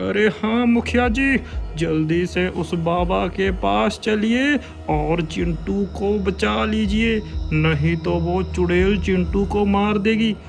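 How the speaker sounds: high urgent begging voice; desperate plea; pleading father. Acted. (गिड़गिड़ाता पिता)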